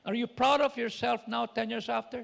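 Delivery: loud, challenging voice asking himself; retold question. Actor recalls asking himself, loud challenging voice. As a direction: demand an answer of his own past self. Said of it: "he said".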